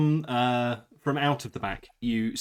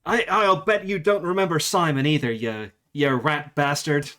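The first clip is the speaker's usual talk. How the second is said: put-on American accent.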